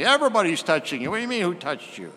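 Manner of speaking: quick, scoffing retort; mocking disbelief. Apostles mocking Jesus's question, quick and scoffing. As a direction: toss it off fast as a mild scoff. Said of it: "the apostles kind of mock his request".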